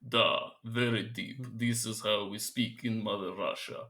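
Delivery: slow, quiet, deep Russian voice; low-key, heavy mock Russian; deep Russian accent. Shown as a demonstration. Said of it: "I have two Russian accents".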